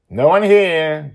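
put-on high, loud, slow child voice; disappointed girl. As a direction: say it like a let-down kid. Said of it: "Joy says".

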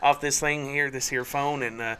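lightly put-on redneck twang, laughing through it; a hint of country boy, amused; mock redneck drawl. Hosts joking about accents, half-hearted laughing redneck accent. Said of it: "maybe I'll just go redneck".

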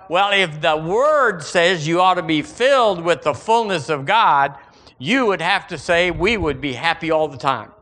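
ordinary talk

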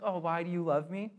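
a light, sweet puzzled question; nice way. Shown as a demonstration. Preacher asking it as a loved one would, gently puzzled. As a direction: ask it kindly, genuinely curious. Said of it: "like, a nice way".

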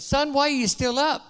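a preacher lightly playing a stern father; father scolds his son for staying up late; scolding. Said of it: "He scolded him and said".

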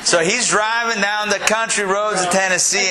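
lightly hammed Southern accent; attempted Tennessee accent. Storyteller trying out a Tennessee accent on the class, hammed up. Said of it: "I start off with Tennessee accent".

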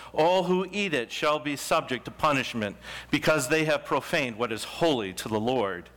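solemn, measured reading of the law; scripture reading. Acted. Pastor reading the law of holiness to the congregation, solemn. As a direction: proclaim each command with weight. Reads Leviticus aloud from pulpit.

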